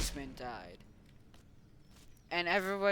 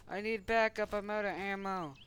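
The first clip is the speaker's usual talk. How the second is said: higher-pitched pretend plea; mock distress call; 5 semitones higher than usual. Wounded officer needing backup, mock distress call. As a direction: call for help in play-acted urgency.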